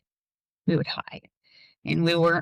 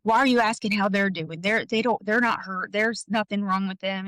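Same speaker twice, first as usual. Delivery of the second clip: retold irritation, pitched a bit higher; mad dad; 3 semitones higher than usual. Dad challenging the neighbor lady's question, mildly mad. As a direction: imitate an annoyed dad, mildly indignant. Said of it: "my dad got mad".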